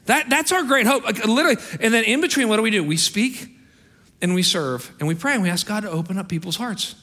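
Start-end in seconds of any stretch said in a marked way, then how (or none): 0.1-5.3 high, loud preacher's cry; raised, ringing pulpit voice; full-force preaching. Acted. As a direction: drive the point home to the congregation.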